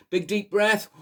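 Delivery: plain reading voice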